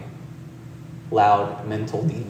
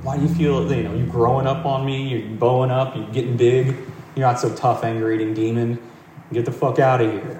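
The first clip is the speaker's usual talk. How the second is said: angry taunting. Acted. Guards taunting the demon.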